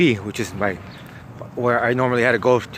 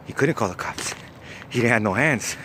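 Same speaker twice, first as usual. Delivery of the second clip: deadpan punchline in an ordinary pitch; straight-faced; 5 dB quieter than usual. Retold or imitated. Cellmate explains victim had no hands, straight-faced. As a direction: imitate someone earnestly explaining the obvious. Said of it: "with a straight face".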